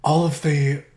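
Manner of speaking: grave, slow trailer-voice storytelling; mock-epic narration. Summarizing Endgame to his cohost as a grim epic saga. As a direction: tell it like a doom-laden epic.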